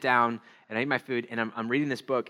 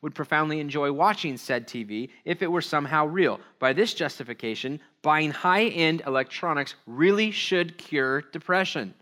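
emphatic article reading; reading aloud; 4 semitones higher, 3 dB louder than usual. Acted. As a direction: read it out deliberately, leaning on key words.

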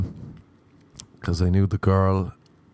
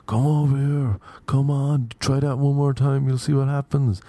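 mock goading, pitched higher; raised-pitch mock taunt; goading challenge; 5 semitones higher than usual. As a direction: imitate two guys egging on a fight. Acted challenge from two guys.

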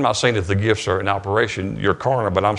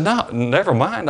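high, slow echo of "never mind"; teasing disbelief, much higher and slower; mock incredulous echo; 8 semitones higher, slower than usual. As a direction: throw her "never mind" back at her, pitched up and drawn out. He echoes her refusal.

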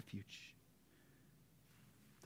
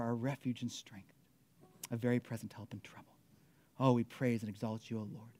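prayer. Real, not acted. Pastor praying to the Father for the congregation, earnest prayer. Let me pray.

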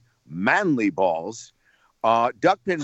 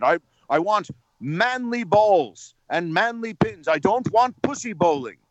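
agitated, higher-pitched rock-star impression; 4 semitones higher than usual. Rock star repeating his demands to a baffled host, mock-agitated. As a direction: insist on each item with mock agitation. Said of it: "he's getting, like, agitated".

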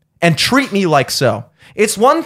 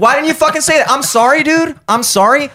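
laughing; 7 semitones higher than usual. Real, not acted. Laughing mock apology rant.

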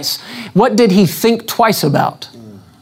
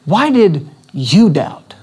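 gentle question; slower than usual. Shown as a demonstration. Preacher shows Jesus' caring tone, gentle and slow. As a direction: ask why did you doubt slowly and kindly. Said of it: "get the essence of it again".

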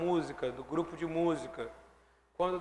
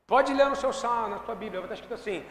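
ordinary talk

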